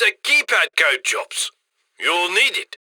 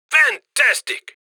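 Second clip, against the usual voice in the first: higher, drawn-out, shouted fantastic; excited praise; 5 semitones higher, slower than usual. Acted. Handler thrilled as the bags keep coming, shouting. Handler cheering big haul.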